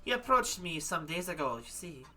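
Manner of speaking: put-on madame explaining, in light German accent; lightly put-on German accent. Madame explains her temporary model, German accent. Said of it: "gonna freaking go back into German again".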